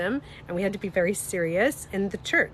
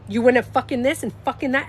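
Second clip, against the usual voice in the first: loud, mock-outraged outburst; hammed-up indignant rant; imitating someone triggered; 6 dB louder than usual. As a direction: act out a sweary flare-up, punching the swear words. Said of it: "as soon as she gets triggered".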